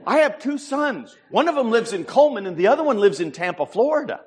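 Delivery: ordinary talk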